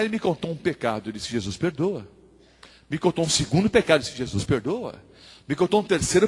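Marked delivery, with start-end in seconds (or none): 1.3-2.1 low, soft, brief reassurance; patient absolution. Acted. Pastor replies to a confessed sin, quiet patient reassurance. 4.2-5.0 low, soft, brief reassurance; patient absolution. Acted. Pastor replies to a confessed sin, quiet patient reassurance.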